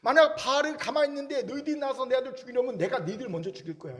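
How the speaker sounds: father Joash challenging crowd. Retold or imitated. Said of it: "이 얘기를 하고 있는 거예요".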